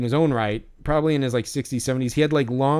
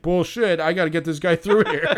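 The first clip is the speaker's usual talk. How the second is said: mildly raised mock protest; imitated hot-headed outburst; 3 semitones higher than usual. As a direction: lightly act out the irate man. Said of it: "came out so fucking hot".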